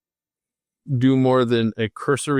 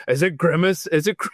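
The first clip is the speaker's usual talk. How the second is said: a slightly raised, excited dog voice that breaks off; Tanner voice, fumbled; 4 semitones higher than usual. Retold or imitated. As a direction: start the dog's line and trip over it. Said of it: "see, now I'm screwing it up".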